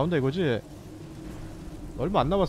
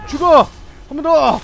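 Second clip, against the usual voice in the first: higher, louder fierce shouting; battle cry; 7 semitones higher, 8 dB louder than usual. Real, not acted. Gamer finishing off the boss, fierce battle shouts. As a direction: shout each hit home as you strike. Landing final hits on boss.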